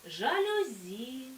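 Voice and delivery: slow жалюзІ, stress on the final І; drawn out, landing on the last syllable of жалюзі; stress demo. Shown as a demonstration. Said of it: "Їх потрібно тільки запам'ятати". (повільно, наголос на останньому І: жалюзІ)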